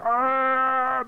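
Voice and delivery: high excited fan squeal. Retold or imitated. Imagining meeting Green Day, a high fan squeal. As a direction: squeal like meeting your idols. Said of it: "I'd be like".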